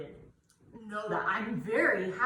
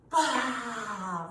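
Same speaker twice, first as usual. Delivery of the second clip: lion's breath roar. Shown as a demonstration.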